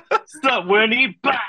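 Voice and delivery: playful jeering imitation; mock Tinkerbell taunt. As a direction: echo the bully taunt with a grin. Repeats friend's Tinkerbell taunt.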